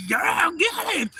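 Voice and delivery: drawn-out, high yell; slow, stretched spectator shout; hollered cheer. Retold or imitated. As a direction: holler it long and loud. Retelling own yelling.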